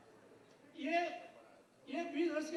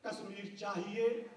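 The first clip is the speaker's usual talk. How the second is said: Musharraf demanding; 6 semitones lower, slower than usual. Retold or imitated. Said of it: "अब वो मुशर्रफ कह रहा है".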